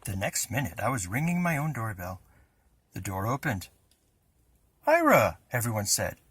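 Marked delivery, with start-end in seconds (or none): 4.9-5.4 high, loud surprised cry of a name; surprised call. A narrator's reading. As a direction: everyone startled to see him. Family surprised at door.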